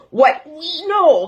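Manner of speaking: lightly mocking a politician. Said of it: "When the politicians talk like this".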